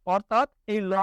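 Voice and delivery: ordinary talk, nothing marked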